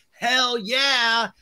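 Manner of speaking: high-pitched retold cheer; enthusiastic approval. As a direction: show you are all for it. Repeats enthusiastic reaction to chart.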